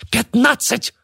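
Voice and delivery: very high, barked bid. A narrator's reading. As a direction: bark the number at them. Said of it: "рявкнула Мурена".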